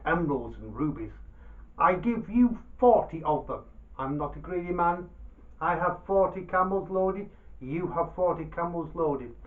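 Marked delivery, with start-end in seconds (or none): 1.8-9.3 loud, proud merchant's boast; boastful merchant. Acted. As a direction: swagger through the offer. Baba Abdallah boasts to Dervish.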